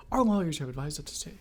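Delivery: formal legal reading. Pretend. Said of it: "in that legal voice".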